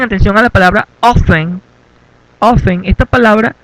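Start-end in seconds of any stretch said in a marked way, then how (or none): 1.0-1.6 "often" pronounced OFF-en, no T; silent T. Shown as a demonstration. Teacher drawing attention to the word, "often" with silent T. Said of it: "es muda, no se pronuncia". 2.4-2.9 "Often" as OFF-en, T left out; silent T. Shown as a demonstration. Teacher showing the class a mute letter, "Often" without T. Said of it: "es muda, no se pronuncia".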